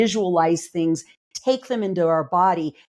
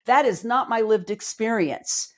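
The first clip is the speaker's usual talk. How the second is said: incredulous scoff; 3 semitones higher than usual. Retold or imitated. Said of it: "my nervous system is going".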